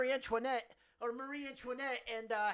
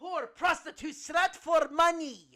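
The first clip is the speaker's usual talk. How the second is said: Malkovich impression; 3 semitones higher, 5 dB louder than usual. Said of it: "I sound like Michael Malkovich".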